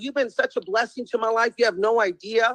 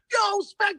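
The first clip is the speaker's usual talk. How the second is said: excited greeting; 9 semitones higher than usual. Retold or imitated. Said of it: "they're like".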